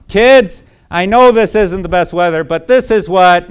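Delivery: high, bright-voiced mother cheering the kids; wife comforting the kids in the rain, upbeat and high; upbeat reassuring wife. Wife tells the kids the trip was a joint choice, upbeat and high. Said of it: "she could say".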